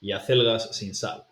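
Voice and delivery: Cecilia cocina cebolla with Castilian th sounds; Spanish from Spain. Shown as a demonstration. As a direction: lisp every C like a Madrid speaker. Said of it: "someone from Spain will pronounce this as".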